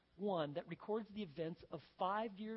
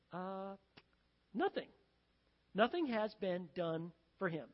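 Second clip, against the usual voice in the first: hesitant, with halting pauses; mild trepidation. Acted. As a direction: break bad news to the king cautiously. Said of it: "a little bit of trepidation".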